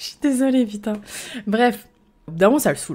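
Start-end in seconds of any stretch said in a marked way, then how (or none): 0.0-0.9 words broken by laughter, pitched up. Telling a story about a past date, laughing while talking. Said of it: "ce rire est aussi très libérateur".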